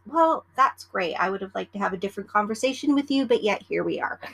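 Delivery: a lightly acted back-and-forth between attendant and passenger; lightly voiced snippy attendant and demanding passenger; imagined exchange. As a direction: play both sides of the peanut argument, dry. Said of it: "I don't actually say that. It's in my head".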